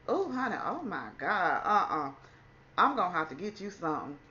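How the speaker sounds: a hint of a fussing doctor; sympathetic doctor. Doctor reacting to her panic.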